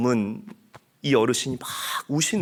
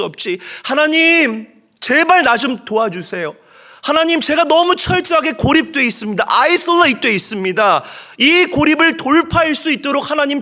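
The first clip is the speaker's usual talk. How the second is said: loud, high desperate wail to God; pleading shout from the wilderness; Hagar's desperate cry; 12 semitones higher, 9 dB louder than usual. Acted.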